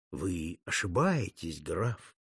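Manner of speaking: low, slow and soft; gentle, coaxing. A narrator's reading. Cardinal sweet-talking the rescued count, low and gentle. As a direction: soothe him like a kindly confessor. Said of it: "вдруг ласково обратился".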